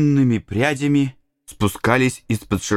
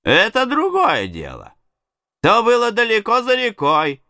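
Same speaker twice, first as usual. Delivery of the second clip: higher nervous voice; 8 semitones higher than usual. A narrator's reading. Partner answers Injun Joe.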